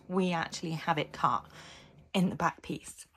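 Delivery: hoarse, croaky throat. Real, not acted. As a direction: talk through a croaky sore throat. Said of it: "excuse my croaky voice".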